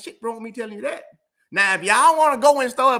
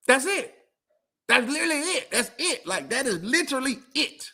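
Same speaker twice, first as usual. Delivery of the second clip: laughing insistence; 3 semitones higher than usual. Real, not acted.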